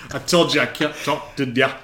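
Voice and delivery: loose jaw, slurred words; floppy jaw ya ya drill. Real, not acted. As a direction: let the jaw hang and mumble. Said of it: "My mouth is just ma".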